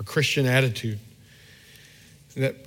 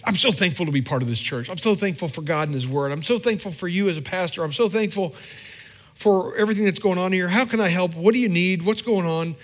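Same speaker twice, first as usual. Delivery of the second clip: grateful member; 5 semitones higher than usual. Retold or imitated. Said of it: "the conversation is like".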